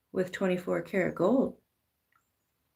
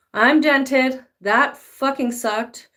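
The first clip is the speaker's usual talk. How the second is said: louder, slow, sulky complaint; whiny dented nugget; 5 semitones higher, 5 dB louder, slower than usual. Acted. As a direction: moan about it like the dented nugget. Nugget voice after being dented.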